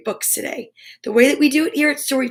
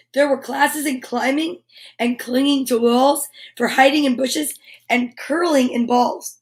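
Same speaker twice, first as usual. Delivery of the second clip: put-on reading to children. Reading picture book to kids.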